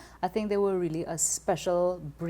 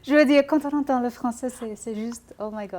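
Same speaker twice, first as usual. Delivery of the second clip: gushing; 5 semitones higher, 4 dB louder than usual. Real, not acted. Gushes about how French sounds.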